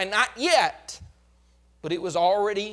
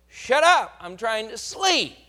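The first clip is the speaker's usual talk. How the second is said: loud, higher burst, then a slower grumble; retold angry scolding; 3 semitones higher, 4 dB louder than usual. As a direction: scold the dog like a woken, furious miner. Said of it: "began to kick that dog and tell him".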